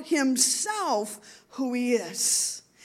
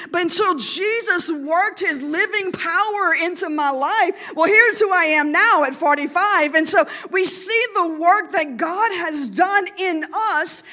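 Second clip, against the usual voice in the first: tearful testimony; 2 semitones higher, 4 dB louder than usual. Real, not acted. Mother testifying to the church about her change, near tears.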